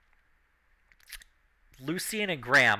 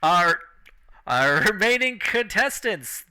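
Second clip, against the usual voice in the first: lightly raised announcer, laughing through it; 3 semitones higher, 4 dB louder than usual. Acted. Announcer mocking the drunk contestants, giggling showman voice. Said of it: "The announcer's just like".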